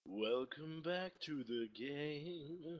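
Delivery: high, loud, drawn-out greeting; mock announcer welcome. Player hams up a welcome back, high and loud.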